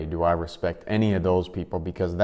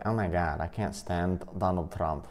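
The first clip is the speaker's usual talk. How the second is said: a light European accent, mocking the liberals; 5 dB quieter than usual. Vlogger mocking liberal Trump haters, lightly European accent. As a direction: slip into a vague European accent. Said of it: "I did a European accent right there".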